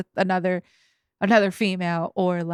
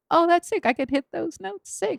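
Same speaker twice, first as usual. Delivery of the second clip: thrilled, much higher; 9 semitones higher than usual. Retold or imitated. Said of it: "I was like".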